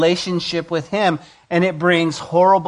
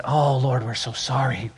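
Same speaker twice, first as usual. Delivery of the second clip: a soft, humble plea for forgiveness; bow your head and beg gently; sorry prayer; 4 semitones lower, 3 dB quieter than usual. Pretend. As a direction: Israel as the preacher wishes it prayed, soft and penitent. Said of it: "I wish at this point Israel would have said".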